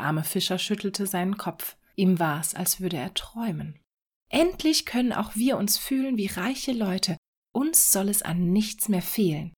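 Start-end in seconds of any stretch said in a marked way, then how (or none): 4.3-9.5 rejoicing. Acted. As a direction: cheer about being rich at last. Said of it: "jubelte die Frau".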